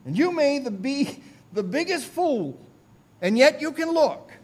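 high, loud homespun pulpit voice; emphatic country preacher driving the point home; untrained lay preacher. Retold or imitated. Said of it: "I remember how he said".

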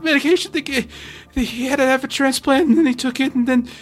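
nervous rambling. Acted. Nervous NPC explains himself.

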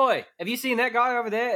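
high-pitched Cockney call; nosy Cockney street shout, put on; mock British accent. Shown as a demonstration. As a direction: demonstrate a hammy Cockney accent. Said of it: "if you're like".

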